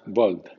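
"bold" con o inglesa, la L suave; English "bold". Shown as a demonstration. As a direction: pronounce "bold" as English bould. (di "bold" con o, no con a)

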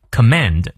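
light first syllable, strong second in command; com-MAND, demonstrated for learners; stress on second syllable. Shown as a demonstration. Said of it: "重音在第二个音节".

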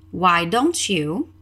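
slow, careful chunk for repeating; a slow first chunk of the question; slow model phrase. Shown as a demonstration. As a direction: say it slowly so learners copy. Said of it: "Let's repeat the question".

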